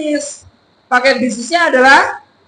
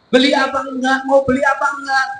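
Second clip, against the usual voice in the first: unenthusiastic questioning; faster than usual. Shown as a demonstration. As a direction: ask as a seller lacking enthusiasm. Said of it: "Dengan penuh semangat". (menawarkan tanpa semangat)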